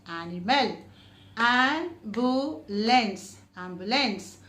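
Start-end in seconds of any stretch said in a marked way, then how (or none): 1.4-3.4 very slow, syllables split. Shown as a demonstration. Teacher breaking a word for the class, slowly. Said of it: "which has three syllables".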